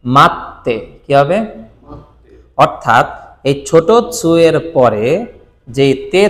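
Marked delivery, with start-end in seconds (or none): 0.0-0.8 মাত্তে with a held double 't'; doubled consonant. Shown as a demonstration. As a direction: stop briefly on the 't' in মাত্তে, then release 'te'. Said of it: "তখন এটার উচ্চারণ হবে".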